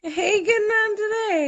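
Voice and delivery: high-pitched attempt at Newfoundland speech; learner's mock Newfoundland accent; imitated Newfoundland accent. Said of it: "everyone's gotta repeat it".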